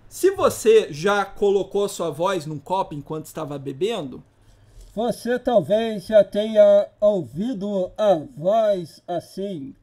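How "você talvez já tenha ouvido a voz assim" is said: put-on muffled old radio voice; into a cup. Shown as a demonstration. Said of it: "Parece voz de rádio".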